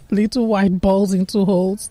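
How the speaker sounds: ordinary delivery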